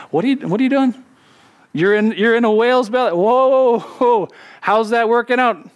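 gently mocking the runaway, amused; playful voice of the Lord. The Lord teasing Jonah in the whale, mock amused.

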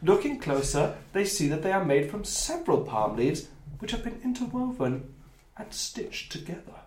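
measured storytelling read; game master narration. Acted. Game master describing the leaves to players, measured narration.

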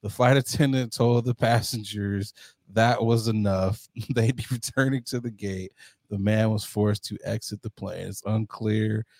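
low, even news-reader delivery; news article read. Acted. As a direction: read it out like a news report, deadpan. Continues reading the article.

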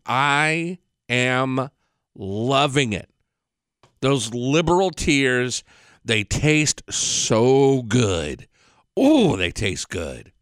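slow, relishing each word like a tasty treat; mock savoring a delicacy; savoring gloat. Gloating over liberals' tears.

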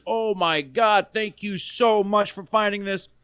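high-pitched, drawn-out gush of mock gratitude; gushing thanks. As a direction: imitate an overjoyed, grateful owner. Owner thanks man for returned wallet.

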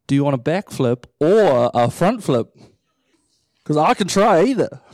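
mock-eager volunteer; eager and playful. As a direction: bounce with eagerness. Eager reply to God.

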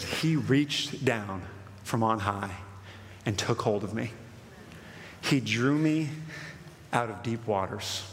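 low, slow psalm reading with long pauses; a touch of solemn awe, read deliberately; hushed scripture reading. Acted. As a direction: let each phrase of the verse settle. Reads the psalm quietly.

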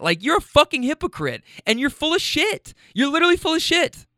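high, fired-up accusing rant; heated retold rant. To the neighbor lady calling her a hypocrite, heated. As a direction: call out the hypocrite, worked up.

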